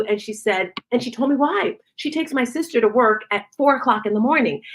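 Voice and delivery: usual speaking voice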